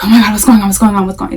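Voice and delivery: rushed, repetitive imitation of a stressed mom; mock panic. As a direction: reel it off in a mild fluster. Acting out panic at baby's crying.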